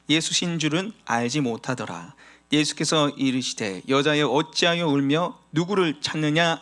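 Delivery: steady, measured Bible reading; scripture reading. Acted. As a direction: read the verses aloud to the congregation. Reads scripture aloud. (성경 봉독)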